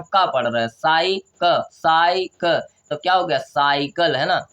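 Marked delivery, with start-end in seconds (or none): 0.7-2.6 "साइक" broken into sai, then ka; teacher sounding out "साइक"; syllable-by-syllable demo. Shown as a demonstration. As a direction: sound out "साइक" in separate slow pieces. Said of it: "यहाँ पे क्या पढ़ रहे हैं हम".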